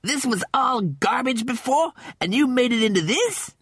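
high, disbelieving question; amazed. Acted. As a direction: marvel at the transformation. Cat amazed at the valley.

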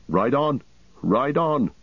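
mild commanding cry to the host; urgent cry. A narrator's reading. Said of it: "cried Eomer".

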